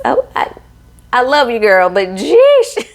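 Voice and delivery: exasperated jeesh. Real, not acted. Reacts to awkward garter moment.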